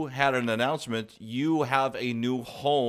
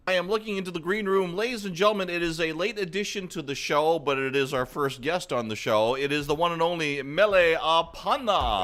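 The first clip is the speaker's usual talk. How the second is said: raised, upbeat show-host build-up; higher-pitched announcer hype; announcer intro; 4 semitones higher than usual. Real, not acted. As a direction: introduce the guest like a big announcement. Host introducing first guest.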